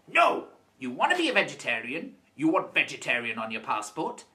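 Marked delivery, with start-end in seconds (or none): 0.1-0.5 emphatic no. Real, not acted. Emphatic refusal.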